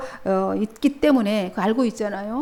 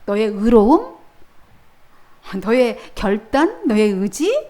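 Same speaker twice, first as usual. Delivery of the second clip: louder, slow, weighing each phrase; 단호한 예수님; 5 dB louder, slower than usual. Acted. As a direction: dismiss his pride one word at a time. 예수님의 꾸짖음 연기. (크게 천천히 한마디씩 짚는 꾸짖음)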